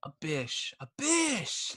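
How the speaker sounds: high-pitched kid squeal, imitated; excited little kid. Parent imitating kid spotting a fish, excited high squeal. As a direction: mimic a small child's excited mispronounced cry. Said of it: "pretty pumped up when you catch fish".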